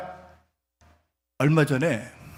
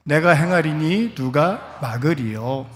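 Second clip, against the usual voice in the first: scripture reading. Acted. Preacher leading the congregation in reading, solemn.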